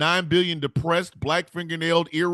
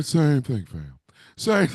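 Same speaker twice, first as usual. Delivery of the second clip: a light take on a smooth-voiced uncle's catchphrase; imitating Uncle Dam; 3 semitones lower, slower than usual. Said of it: "He over there".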